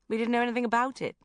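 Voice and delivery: loud, fast and blunt. A narrator's reading. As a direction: say it loudly and bluntly. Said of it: "said Sharon loudly".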